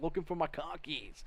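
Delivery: put-on light Boston accent; a passing imitation of a Boston accent. Host shows viewers how Boston sounds, light Boston accent. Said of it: "like a Boston accent kind of deal".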